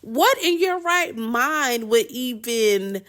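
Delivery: high-pitched, exasperated disbelief; incredulous scolding. Real, not acted. Scolding the food snooper in retelling.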